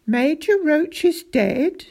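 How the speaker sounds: high-pitched shocked question; stunned, pitch jumping up; taken aback. A narrator's reading. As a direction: react in startled disbelief. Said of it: "taken aback".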